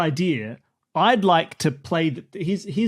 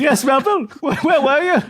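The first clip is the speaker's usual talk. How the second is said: flustered shopkeeper; 5 semitones higher than usual. Acted. Shopkeeper turning back to Melville.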